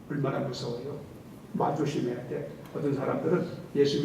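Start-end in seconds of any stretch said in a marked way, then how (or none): 0.1-2.5 hushed warning. Real, not acted.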